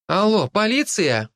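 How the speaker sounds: put-on girl on the phone. A narrator's reading. Girl calls police.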